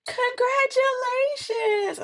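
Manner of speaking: high, drawn-out mock cheer; teasing congratulations. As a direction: imitate a friend gleefully singing out good news, slowly. Friend teases her over positive test.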